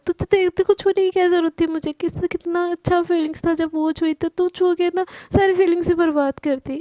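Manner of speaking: ऊँची आवाज़ में झिड़कती सहेली; हल्की सी डाँट, पिच ऊपर; डांटते हुए. Acted. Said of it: "ऐसे बोल के वो डांटने लगती है". (सहेली को ऊँचे सुर में डाँटना)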